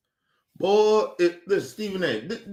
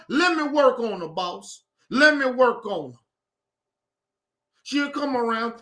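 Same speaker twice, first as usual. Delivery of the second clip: mocking Stephen A; 3 semitones higher than usual. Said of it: "That's what you sound like".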